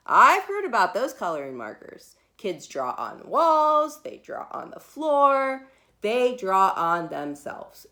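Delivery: put-on anxious mom warning her kid; worried mother. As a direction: paint the horror of marker-covered walls. Mother lists marker dangers.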